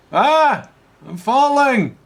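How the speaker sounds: high, loud falling scream; panicked scream. Acted. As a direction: yell in mid-air panic. Character falling from sky.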